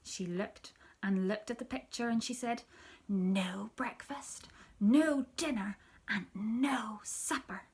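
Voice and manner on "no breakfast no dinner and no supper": put-on sad child repeating. Sister repeating sadly over and over.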